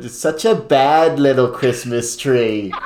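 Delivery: put-on slow, drawn-out Jersey accent. Contestant imagining the quote in Jersey, slow mock Jersey accent. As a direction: attempt a Jersey accent, taking it slowly. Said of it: "imagine with the Jersey accent".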